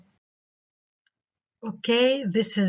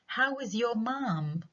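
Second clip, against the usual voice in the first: higher, slow, friendly question; warm rising question; 5 semitones higher, 4 dB quieter, much slower than usual. Shown as a demonstration. Teacher demonstrating a friendly, rising WH question. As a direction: show personal interest with a lift. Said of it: "التون فيه rising".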